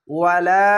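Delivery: "ওয়ালা" with the final লা held long; one-alif stretch. Shown as a demonstration. Teacher demonstrating the alif, "ওয়ালা" with long লা. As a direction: draw out the end of "ওয়ালা". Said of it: "এক আলিফ টেনে পড়বেন".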